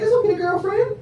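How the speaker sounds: put-on high, soft patronizing girlfriend voice; syrupy mock sympathy, slowing at the end; fake sweet condescension. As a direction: purr it sweetly but condescend. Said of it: "Now she like".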